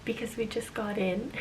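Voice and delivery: whispering. Real, not acted. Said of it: "I have to whisper because".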